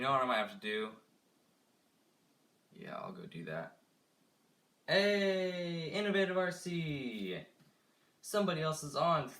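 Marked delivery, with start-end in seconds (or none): 4.9-9.3 high, loud, delighted hello; bright, raised welcome to a viewer; excited greeting. Real, not acted. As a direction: call out happily to the new viewer.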